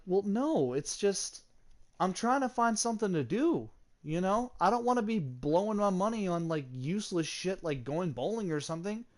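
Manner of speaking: exasperated self-defence. Retold or imitated. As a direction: justify yourself, voice swinging up on each excuse. Retold defence against her complaint.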